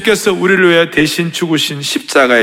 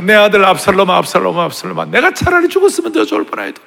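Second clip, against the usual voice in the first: wailing lament. Acted. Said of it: "계속 울면서 통곡을 하면서 계속 비탄 노래를 외치며".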